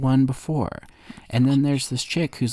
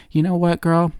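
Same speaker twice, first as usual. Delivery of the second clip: sassy librarian; 7 semitones higher, 4 dB louder than usual. Retold or imitated. Librarian voiced in retelling.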